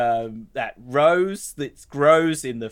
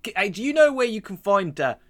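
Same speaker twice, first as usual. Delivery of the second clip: overheard stranger asking; 5 semitones higher than usual. Acted. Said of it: "you can hear this voice".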